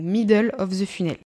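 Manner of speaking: English term in a French accent; French sounds on the English words. Real, not acted. Coach apologising for her English, French-accented English. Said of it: "pardon, pour mon accent anglais".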